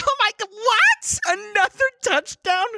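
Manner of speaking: very high, loud squealing fake amazement; drawn-out over-the-top falsetto shock; a singer. Mocking the star's reaction in the stadium booth, exaggerated fake excitement. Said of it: "Like, she's like".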